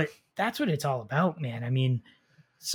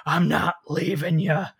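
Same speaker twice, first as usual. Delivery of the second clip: mock tearful plea; 3 semitones higher, 3 dB louder, slower than usual. Nick Cage pleading with Pedro Pascal on the ledge, mock tearful. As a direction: ham up a tearful movie farewell. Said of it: "and he's like".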